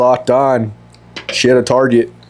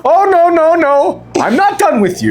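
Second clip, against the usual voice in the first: imitating the mother; 12 semitones higher than usual. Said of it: "she's like".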